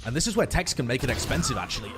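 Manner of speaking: usual speaking voice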